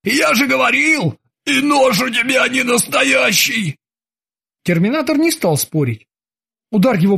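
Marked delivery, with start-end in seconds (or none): 0.0-3.8 high gloating shout; triumphant Krueger. A narrator's reading. Krueger gloats at the terminator. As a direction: rub it in.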